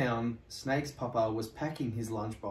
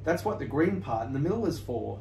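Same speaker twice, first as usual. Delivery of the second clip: smiling; 3 semitones higher, 4 dB louder, faster than usual. Acted. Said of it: "smiled Sparrow".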